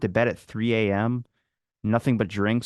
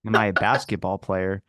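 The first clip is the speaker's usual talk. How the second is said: echoing her question back in disbelief, lower; incredulous echo; 3 semitones lower than usual. Retold or imitated. Guest repeating clerk's question, baffled lower echo. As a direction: repeat it back like it's absurd. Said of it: "What do you mean?".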